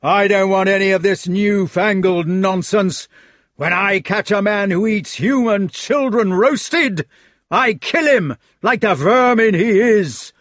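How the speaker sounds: loud, high, slow contemptuous roar; furious bellow. Acted. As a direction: sneer and bellow at him. Fat knight rages.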